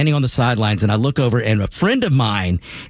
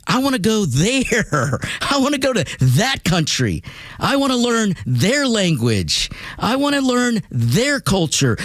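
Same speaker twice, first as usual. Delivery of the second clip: yearning; 7 semitones higher than usual. Retold or imitated. Voicing dad's longing, slowed.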